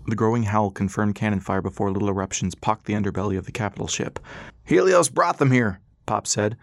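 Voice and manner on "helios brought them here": slow, louder and higher; old man voice. Acted. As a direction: spit it out in grim realization. Pop realizing the attack.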